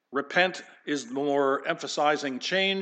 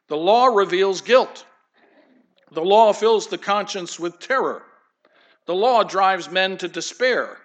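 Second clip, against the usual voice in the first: forceful preaching; 5 semitones higher, 8 dB louder than usual. Real, not acted. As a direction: proclaim each line like a verdict. Preaching the law's terror.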